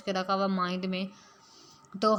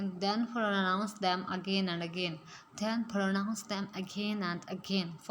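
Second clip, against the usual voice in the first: very slow, word by word; slow dictation; much slower than usual. Shown as a demonstration. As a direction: dictate for learners to repeat. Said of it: "repeats rule slowly".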